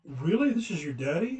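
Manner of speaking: high, swooping posh English lady, incredulous; posh English accent. Retold or imitated. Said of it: "she had this posh English accent".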